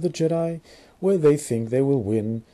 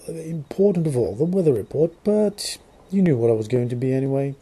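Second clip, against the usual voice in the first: mock British accent. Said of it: "I'm trying to do this strange, non-existent British accent".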